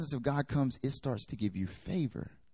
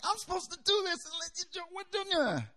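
indignant rant; faster than usual. Retold or imitated. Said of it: "I'm like".

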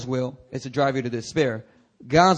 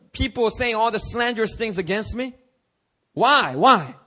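high, loud pleading why to God; a believer complaining to God in prayer; lamenting prayer; 7 semitones higher, 5 dB louder than usual. Acted. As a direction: plead with God, hurt and bewildered. Preacher acting out a complaining prayer.

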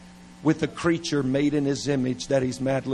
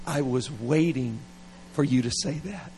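God's tender reply; 3 dB quieter than usual. Retold or imitated. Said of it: "He just like".

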